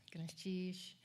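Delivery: breathy whisper to herself; whispered aside. Real, not acted. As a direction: whisper it under your breath, overwhelmed. Murmured aside while collecting herself.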